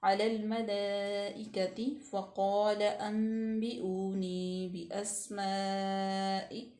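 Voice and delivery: slow unbroken recitation; continuous recitation. Shown as a demonstration. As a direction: read straight on without stopping. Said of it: "मुसलसल पढ़ते जाएंगे".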